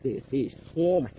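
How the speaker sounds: loud, thrilled cries; excited shouting. Real, not acted. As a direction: yell it out, overjoyed. Big fish being reeled in.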